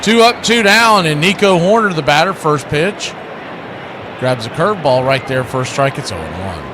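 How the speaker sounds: play-by-play. Acted. Calling the game play-by-play.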